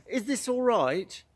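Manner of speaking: horse asking. Retold or imitated. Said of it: "the horse is saying".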